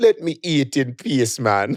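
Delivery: put-on Jamaican accent in a kid's voice. Retelling what a jamaican kid says to his father: imitating a kid's jamaican accent. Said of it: "Little kids with Jamaican accents".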